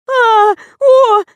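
very high, loud frightened shriek; inarticulate shriek. A narrator's reading. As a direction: squeal wordlessly in panic. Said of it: "издавать нечленораздельные звуки Лиза". (нечленораздельный испуганный визг)

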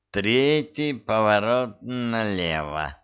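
put-on slow drunken mumble; mumbling drunk. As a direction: mumble it slowly, tipsy. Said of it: "промычала дама".

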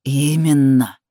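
a low growl. Acted. Man growls into the woman's ear, low growl. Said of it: "прорычал он мне в ухо".

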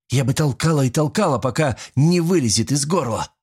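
a hint of a hungry young fury; vengeful young woman. Young woman craving to hurt the prisoner, lightly voiced. Alisanna craves cruel revenge.

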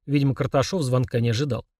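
ordinary delivery, nothing marked

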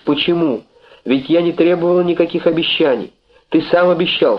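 understated anguished pleading with her lover; desperate reproach. Acted. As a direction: beg and accuse him at once, pitched high. Girl pleads, reproaching Jim.

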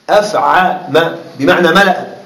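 slow dictation. Shown as a demonstration. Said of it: "dictating to the class".

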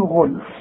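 غلف stopped on a bare f, no ending vowel; pausal form. Shown as a demonstration. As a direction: end غلف "ghulf", cut at the f. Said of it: "عند الوقف هنقول". (الوقف على «غلف» بسكون الفاء)

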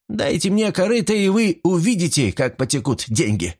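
eager. Acted. Debby boasts of her laundry.

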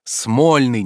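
impatient. A narrator's reading. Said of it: "нетерпеливо сказал Обломов".

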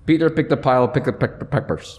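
muffled behind a mask; through a face mask. Real, not acted. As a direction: talk through a cloth mask. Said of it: "Let's see if it works".

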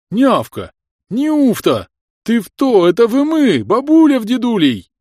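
high, loud pained screech; a monster howling in agony; shrieking creature. Acted. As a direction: creature shrieking at the old couple. Creature reels from love.

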